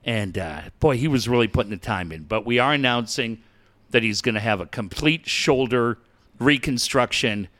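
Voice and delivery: a hint of a smug press-conference exec; mock team executive. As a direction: parody a team official reassuring fans.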